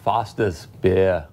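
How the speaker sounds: slow, lightly put-on Australian accent; a hammed-up Australian drawl on two words. Coworker jokes an Australian accent on air, slow and light. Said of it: "That's my Australian accent".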